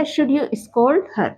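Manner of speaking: each word said very slowly and apart; slow dictation. Shown as a demonstration. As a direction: spell it out slowly for students. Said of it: "तो कैसे बन गया?". (बहुत धीरे, शब्द-शब्द अलग करके)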